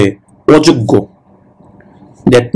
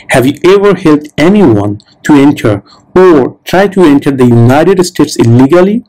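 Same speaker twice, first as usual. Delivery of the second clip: very slow, deliberate question reading; slow, clear interview-question read; slow test question read; much slower than usual. Shown as a demonstration. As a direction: read it out word by word for learners. Reads the interview question aloud.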